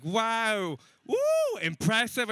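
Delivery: high, loud whooping; mock impressed. Audience reacting to his show in Egypt, mock impressed. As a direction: whoop like an over-impressed crowd.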